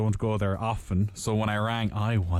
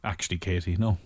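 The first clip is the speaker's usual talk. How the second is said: firm and serious; 4 semitones lower than usual. Retold or imitated. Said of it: "my tone probably would change".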